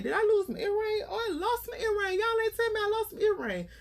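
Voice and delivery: high-pitched hammed-up wail of dismay; mock distress. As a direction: put on a high, whiny mini-panic. Acts out overreaction to lost earring.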